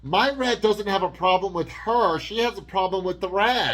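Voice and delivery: high, loud mock protest; mock dramatic. Daughter defending her rat against the girlfriend, mock dramatic. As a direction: ham it up as the indignant daughter. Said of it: "This is so dramatic".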